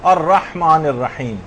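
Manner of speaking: slow الرحمن الرحیم with a throaty ح in both words; correct heavy ح. Shown as a demonstration. Teacher shows students the verse, careful pronunciation. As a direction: model الرحمن الرحیم, each ح breathed from the throat. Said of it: "ہا جو ہے وہ صحیح نکالنا".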